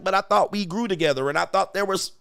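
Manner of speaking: high mock plea, like a hurt boyfriend; whiny man. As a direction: plead in a lifted whiny voice. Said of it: "you're gonna be like".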